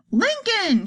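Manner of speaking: high grieving wail. A narrator's reading. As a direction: wail the name. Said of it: "she wailed".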